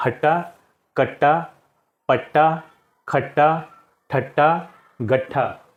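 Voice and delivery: each word said slowly and separately, doubled consonants held; teacher modelling clear pronunciation word by word; careful pronunciation demo. Shown as a demonstration. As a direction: pronounce हट्टा with a held double ट. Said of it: "उच्चारण करके मैं बता देता हूँ".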